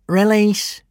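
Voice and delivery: firm command. A narrator's reading. Prefect commands the gronkel to drop the kidnapper, "release" given loud and firm. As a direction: order the dragon to let go with "release". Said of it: "he said to the gronkel".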